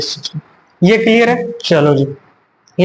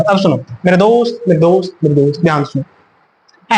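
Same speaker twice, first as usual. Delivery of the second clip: calling attention; 3 semitones lower than usual. Acted. Teacher calls students to attention.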